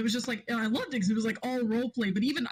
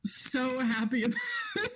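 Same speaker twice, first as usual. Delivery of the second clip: crying laugh; 3 semitones higher than usual. Real, not acted. Laughing about her tragic moment.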